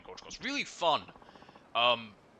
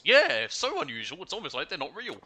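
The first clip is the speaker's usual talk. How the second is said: slow, higher, louder sarcasm; sarcastic; 9 semitones higher, 10 dB louder than usual. Real, not acted. Mocking the fake accident story, sarcastic and drawn out. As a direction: drip with sarcasm.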